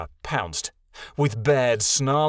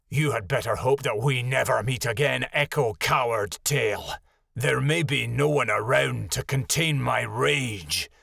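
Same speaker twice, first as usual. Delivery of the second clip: menacing wolf. Acted. Lilja threatening Echo.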